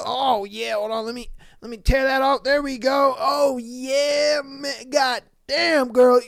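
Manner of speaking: put-on whooping, giddy drunk customer, laughing as he writes checks; loud, hooting and cackling, throwing money around; drunk guy at strip club.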